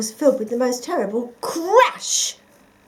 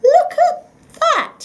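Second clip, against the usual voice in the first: surprised; 11 dB louder, slower than usual. A narrator's reading. Uncle finds rubbish.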